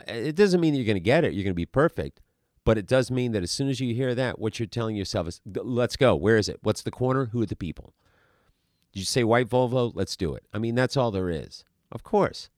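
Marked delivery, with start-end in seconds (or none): 5.5-10.4 eager self-talk. Acted. Eager actor's self-talk before a task.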